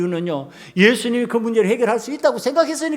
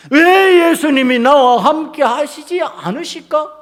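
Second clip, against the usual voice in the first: raised, protesting "why"; indignant questioning; 5 semitones higher, 3 dB louder than usual. Acted. Believer asking why Jesus is absent, resentful protest. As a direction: lean into the grievance. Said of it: "분노의 방식이고".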